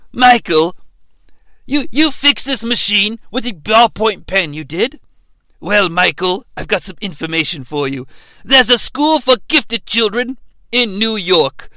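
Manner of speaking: a light impression of the calm doctor; lightly voiced doctor making his pitch; Doctor Loomis voice. Doctor pitching a gifted school to Michael, lightly voiced. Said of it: "may become Doctor Loomis at random times".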